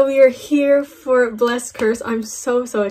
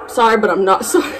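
laughing; 4 dB louder than usual. Real, not acted. Joking apology.

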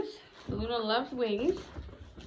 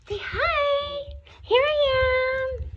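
voicing the dog; 12 semitones higher, 6 dB louder, much slower than usual. Speaks for the dog.

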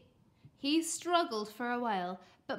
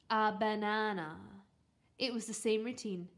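ordinary delivery

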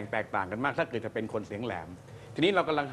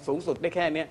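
high range demo; 4 semitones higher than usual. Shown as a demonstration. Judge demonstrating a normal singer's highest range, sung high. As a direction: lift up to the top of the range on สุดได้แค่เนี้ย.

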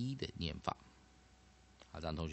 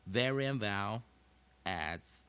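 formula read slowly; slower than usual. Shown as a demonstration. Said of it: "我们的公式就叫做".

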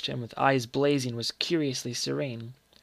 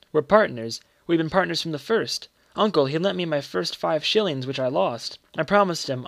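put-on higher-pitched, eager boy confiding in his uncle; a hint of a pleading child; lightly voiced earnest boy; 3 semitones higher than usual.

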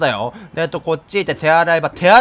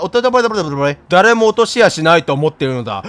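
pompous mayor cat voice; 3 semitones lower than usual. Acted. Game streamer reads the mayor's orders, pompous. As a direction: lord it over the player. Voicing the mayor cat's lines.

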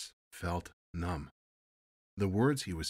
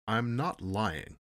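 stiffly; 4 semitones higher, 6 dB louder, slower than usual. Acted. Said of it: "the man said stiffly".

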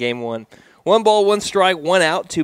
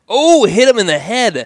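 sudden higher, louder gasp of alarm; shocked outburst; 9 semitones higher, 8 dB louder than usual. Real, not acted. Announcer sees the batter hit, shocked. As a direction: blurt it out as the pitch hits him.

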